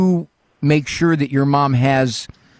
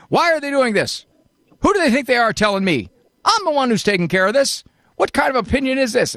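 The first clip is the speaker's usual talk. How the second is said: much higher and fast, imitating a fuming rant; mock indignant rant; 9 semitones higher, faster than usual. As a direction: rattle off the grievance like she's losing it. Host voices caller's angry outburst.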